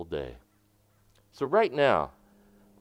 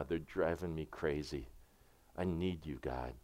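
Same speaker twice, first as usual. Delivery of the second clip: much softer, a quiet private plea to God; hushed prayer; 6 semitones lower, 6 dB quieter than usual. Shown as a demonstration. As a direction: pray it under your breath, softer and lower. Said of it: "you would whisper these things like".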